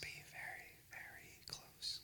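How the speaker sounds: fading to a faint whisper, slowing. Shown as a demonstration. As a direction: show how close you must be. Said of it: "To hear a whisper".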